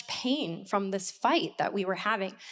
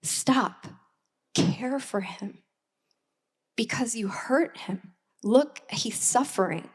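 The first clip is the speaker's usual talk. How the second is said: gentle inner voice. Retold or imitated. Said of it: "the other side said".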